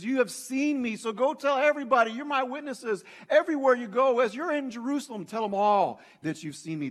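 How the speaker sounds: high, loud, driving exhortation; Jesus's urgent commission. Acted. Jesus sending his witnesses to tell everyone, urgent and emphatic. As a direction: send them out with rising urgency and force. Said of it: "If I can just paraphrase a little bit, that Jesus is saying".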